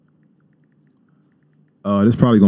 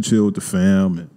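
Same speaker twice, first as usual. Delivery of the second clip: talking while chewing gum; words around a wad of gum. Real, not acted. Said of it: "Oh, I got this gum in my mouth".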